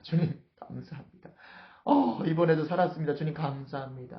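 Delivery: acted sighing relief, softening at the end; inward thanks. David secretly relieved at his escape, inward thanks. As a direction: let out a relieved thank-you prayer. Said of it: "속으로 다윗이".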